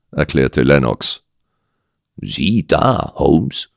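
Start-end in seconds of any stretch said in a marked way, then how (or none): 2.2-3.7 understated amusement, lifting at the end; amused. Acted. Doctor comments to his detective friend, amused. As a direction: remark with a touch of amusement. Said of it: "kommentierte ich amüsiert".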